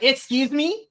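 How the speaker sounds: high incredulous question. Retold or imitated. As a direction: ask it in disbelief. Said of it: "I was like".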